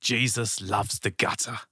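lightly imitated, slow and soft; a hint of a slow preacher's quote; Michael Emmett. Host quoting a favourite speaker, lightly imitated. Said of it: "he speaks like this".

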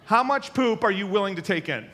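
loud, laughing, high-pitched question. Real, not acted. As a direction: ask it while still cracking up. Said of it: "that sounds funny, right?".

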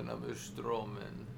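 mock Russian accent, lightly done. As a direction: echo the line in a joke Russian accent. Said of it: "Why, why did we go to a Russian accent?".

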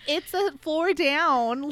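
slow and curt, drawn out; rude, slow retort. Retold or imitated. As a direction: say it rudely, dragging each word. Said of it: "really rudely".

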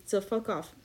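playfully snapping at would-be correctors; fake-rude brush-off, rising at the end; mock hostile dismissal. Podcast host jokingly daring listeners to correct her, mock hostile. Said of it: "You're a little hostile tonight".

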